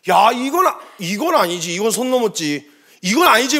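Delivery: acted indignant protest; worked-up indignation. David hears God's name mocked, imitated worked-up indignation. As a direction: protest as if a line was crossed, building at the end. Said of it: "하면서 막 흥분해서".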